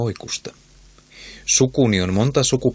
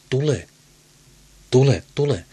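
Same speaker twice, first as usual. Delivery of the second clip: put-on higher cackling old woman; cackling crone; 4 semitones higher than usual. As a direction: cackle the summons like a hag. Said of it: "ja kaakatti". (kaakattava vanhan eukon kutsu)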